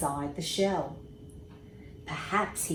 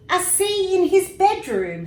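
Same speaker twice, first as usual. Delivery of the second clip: high, loud puzzled echo; mother echoing the words, puzzled; surprised mother; 12 semitones higher, 8 dB louder than usual. A narrator's reading. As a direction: echo it, baffled. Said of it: "said his mother".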